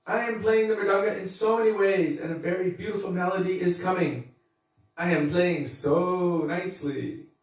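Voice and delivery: preen over your own playing; lightly hammed-up show-off drummer; smug drummer. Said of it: "is thinking".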